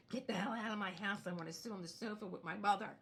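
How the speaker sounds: dog's imagined fed-up yell at the guests; mock exasperated yell. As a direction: shout them out of the house in play. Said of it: "Fufi was like".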